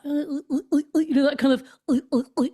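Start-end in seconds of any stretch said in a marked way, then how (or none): 0.0-1.0 repeated short sounds made in the throat; throaty guttural noises. Shown as a demonstration. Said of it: "in the throat". 1.9-2.5 short repeated grunts from the throat; throaty guttural noises. Shown as a demonstration. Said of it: "in the throat".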